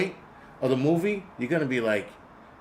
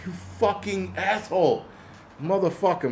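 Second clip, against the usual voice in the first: mock indignation; 5 semitones higher than usual. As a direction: draw out the insult in exasperation. Acts out cursing at the movie.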